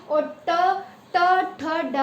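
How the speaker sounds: ट, ठ, ड sounded separately with the tongue curled back; sound demo. Shown as a demonstration. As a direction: say ट ठ ड crisply. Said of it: "ड बोल के देखो".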